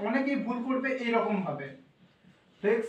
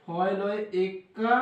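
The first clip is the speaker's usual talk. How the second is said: slow spelling out; 3 semitones lower, much slower than usual. Shown as a demonstration. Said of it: "এইভাবে হবে".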